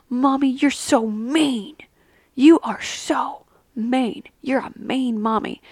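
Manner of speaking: put-on slow, half-whispered child's complaint; imitating daughter. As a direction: lightly voice a sulking kid. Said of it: "I remember her saying".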